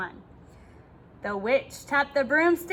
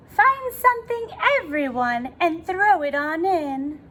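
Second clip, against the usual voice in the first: cheery call; 5 semitones higher, 4 dB louder than usual. Acted. Witch cheerfully calls friends.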